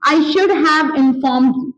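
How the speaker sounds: unhurried, each word laid out; slow model sentence. Shown as a demonstration. Teacher slowly modelling the active apology sentence. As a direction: say it slowly for the class. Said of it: "मुझे तुम्हें बताना चाहिए था".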